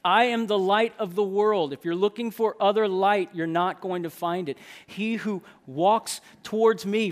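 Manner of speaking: loud, forceful proclaiming; proclamation. Acted. Preacher voicing Jesus as light of the world, loud proclamation. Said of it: "There's proclamation".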